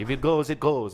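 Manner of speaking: put-on unconvincing French accent; terrible French accent. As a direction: toss it off like a mock Frenchman. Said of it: "That's a terrible French accent".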